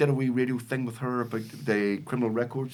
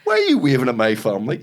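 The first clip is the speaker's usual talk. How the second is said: retold angry driver; 4 dB louder than usual. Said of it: "taxi driver turns to me and goes".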